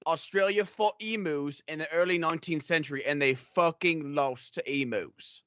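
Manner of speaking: put-on Australian accent; mock Australian accent. Host poking fun at an Australian caster, mock Australian accent. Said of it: "I'm doing this accent anyways".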